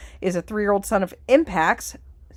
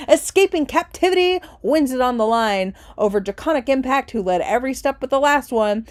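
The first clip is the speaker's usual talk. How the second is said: race finish call; 3 semitones higher, 4 dB louder than usual. Acted. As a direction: race caller easing down after the wire.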